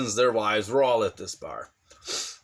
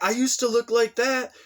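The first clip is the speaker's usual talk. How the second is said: brother's excuse; 10 semitones higher than usual. Retold or imitated. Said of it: "And he's like".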